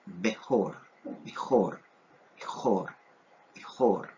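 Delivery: "Mejor" repeated as Hebrew bejor, falling each time; repeated Hebrew word. Shown as a demonstration. Teacher drilling Hebrew bejor for the class. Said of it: "o se traduce como primogénito".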